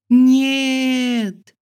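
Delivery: high loud piercing "no"; scream. Acted. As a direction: scream it with everything. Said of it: "Я кричала, пока не осипла".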